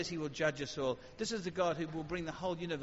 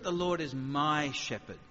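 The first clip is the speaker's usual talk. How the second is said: "my" weighted, slow; slow, lean into "my"; stress on my; 2 semitones lower, slower than usual. Shown as a demonstration. Preacher contrasting stresses, slow weight on "my". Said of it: "or is it".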